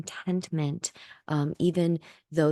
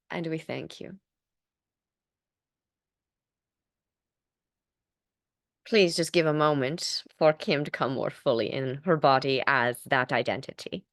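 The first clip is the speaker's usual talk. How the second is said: seance medium; 2 semitones higher, 3 dB louder than usual. Acted. Channeled entity speaking through Kim.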